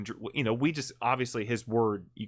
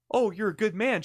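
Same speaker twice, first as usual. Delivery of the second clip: higher, mocking echo of his words; sarcastic scoff; 8 semitones higher, 3 dB louder than usual. Prosecutor mocking the defendant's good-man claim, sarcastic and higher. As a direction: throw his claim back at him with disbelief. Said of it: "She goes".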